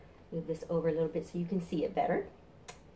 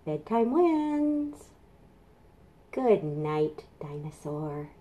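gentle bedtime; much slower than usual. Acted. Calm bedtime ending.

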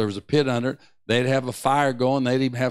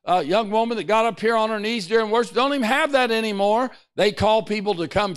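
raised-pitch preacher, pressing onward; fervent preaching; 6 semitones higher than usual. Real, not acted. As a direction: exhort the congregation with mounting fervour. Preaches at fuller force.

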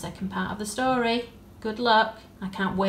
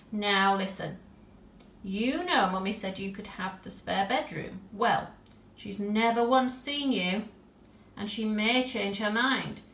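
put-on louder girl giving a stern lecture; serious talking-to; 5 dB louder than usual. Tilly gives the bear a serious talk, stern lecture. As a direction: lay down the rules like a little parent.

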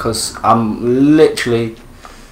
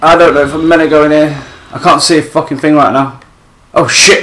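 panicked high yelling; 3 semitones higher, 6 dB louder than usual. Real, not acted. Panicked escape.

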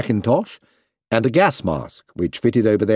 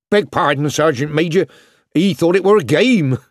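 apologetic; 6 semitones higher, 3 dB louder than usual. A narrator's reading. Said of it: "Keith apologized".

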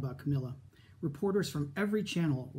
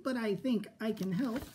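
bright; 6 semitones higher than usual. Acted. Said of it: "she said brightly".

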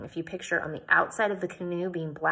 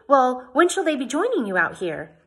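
eager; 6 semitones higher, 6 dB louder than usual. A narrator's reading. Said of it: "I asked eagerly".

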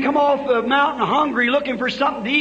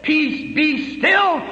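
commanding call; 3 semitones higher, much slower than usual. Retold or imitated. Jesus commanding the storm.

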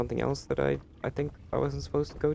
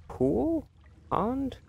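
escalating playful guesses; 5 semitones higher, much slower than usual. Real, not acted. Escalating jokes about underground water.

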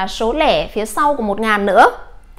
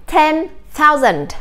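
slow model reading; 3 semitones higher, slower than usual. Shown as a demonstration. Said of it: "Chúng ta đọc là".

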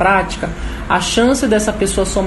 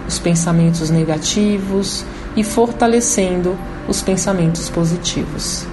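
guided meditation. Acted. Leads a guided chakra meditation.

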